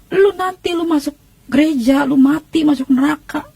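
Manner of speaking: retold scolding warning. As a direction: warn her as a disapproving relative would. Keluarga menegur Irma dengan ancaman neraka. (menirukan keluarga yang memperingatkan)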